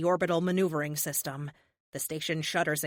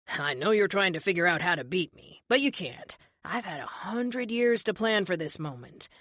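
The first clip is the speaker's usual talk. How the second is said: smug villain. Acted. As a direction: taunt her with lazy menace. Villain Erickson gloats.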